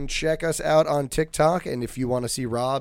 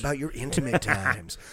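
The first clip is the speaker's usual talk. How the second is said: late-night radio DJ. Pretend. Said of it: "we sound like, uh, th-, like W E O K".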